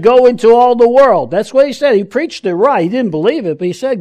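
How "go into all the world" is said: quoting the preacher. Retold or imitated. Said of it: "And the preacher said".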